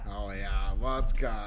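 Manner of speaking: hammed-up Russian accent in German. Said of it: "mit einem leichten russischen Akzent".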